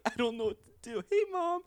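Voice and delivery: high, loud panicked blurt; flustered greeting. Retold or imitated. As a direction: imitate yourself caught out, voice jumping up high. Acts out panicked greeting to mom.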